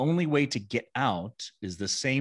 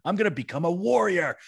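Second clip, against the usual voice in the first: higher, louder, proud defiance; defiant declaration; 10 semitones higher, 4 dB louder than usual. Retold or imitated. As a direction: declare it like a rebellious son. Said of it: "And Jeffrey says".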